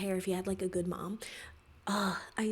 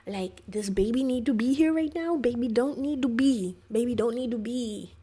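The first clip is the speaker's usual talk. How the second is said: exasperated; 3 semitones higher, 7 dB louder than usual. Real, not acted. Annoyed at mom voiceover.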